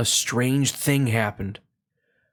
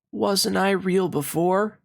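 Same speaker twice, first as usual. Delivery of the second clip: small rabbit voice; 7 semitones higher than usual. Acted. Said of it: "asked the little rabbit".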